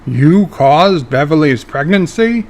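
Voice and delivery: mildly stunned question; stunned Picard. Acted. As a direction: let the shock land lightly. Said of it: "says a stunned Picard".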